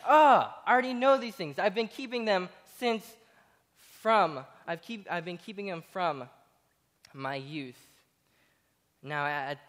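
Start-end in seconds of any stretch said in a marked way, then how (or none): 0.1-7.8 exasperated protest. Retold or imitated. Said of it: "He's like".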